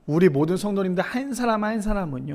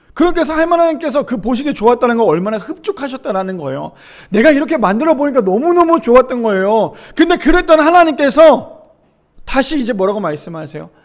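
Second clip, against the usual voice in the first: forceful sermon delivery, building louder and higher; impassioned preaching; 4 semitones higher, 6 dB louder than usual. Acted. Preacher tells congregation of God's delight, impassioned.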